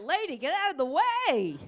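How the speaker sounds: loud high yell at a passing woman; yelled insult. Retold or imitated. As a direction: bark it like a rude worker across the street. Construction workers yelling at her.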